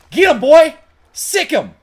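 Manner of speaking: high excited shout; egging on the dog. Real, not acted. Player cheering his dog into the fight, loud and high. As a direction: yell at the dog to attack. Urging dog to attack again.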